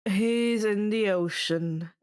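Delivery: slow, bored drawl. Acted. Dionysus to Annabeth, a slow bored drawl. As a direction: drag it out, unbothered. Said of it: "I drawled".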